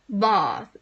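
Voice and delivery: "Bath" tried in a posh English accent with a long "ah", "bɑθ"; a half-hearted stab at a posh English "Bath"; bad posh accent. Shown as a demonstration. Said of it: "I can't do a posh accent".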